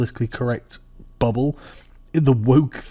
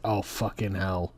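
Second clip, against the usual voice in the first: low, soft, under the breath; stunned disbelief; 5 semitones lower, 10 dB quieter, slower than usual. Retold or imitated. Fan watching a Chinese impression, stunned disbelief. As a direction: let it sink out in amused dread.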